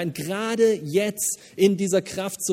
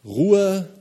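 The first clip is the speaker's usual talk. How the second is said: louder, higher call of Ruhe; 4 semitones higher, 6 dB louder than usual. Shown as a demonstration. Preacher naming the first word to his congregation, called out. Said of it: "sanft und leicht".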